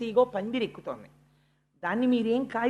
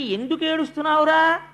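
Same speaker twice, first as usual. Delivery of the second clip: anxious mother; 6 semitones higher, 5 dB louder than usual. Retold or imitated. Suniti asks her crying son.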